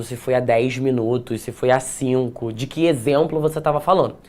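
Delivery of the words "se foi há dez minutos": normal talking voice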